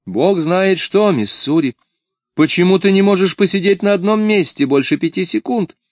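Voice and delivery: high-pitched, fretful telling-off; exasperated scolding. A narrator's reading. Mistress scolding restless Missouri in the kitchen, exasperated.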